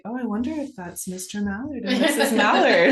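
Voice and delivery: playful giggly wondering; telling a friend the family joke, laughing. Retold or imitated. Playful quote about backyard ducks.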